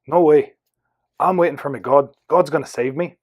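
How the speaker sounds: put-on mild, rough Irish accent. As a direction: refuse with a touch of Irish. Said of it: "I'm going to do an Irish accent".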